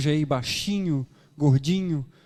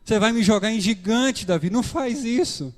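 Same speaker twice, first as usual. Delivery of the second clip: high, urgent pleading; pleading stone; 7 semitones higher, 4 dB louder than usual. Acted. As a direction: beg him not to throw you. Stone begs David not to throw. (pedra implorando alto e aflita)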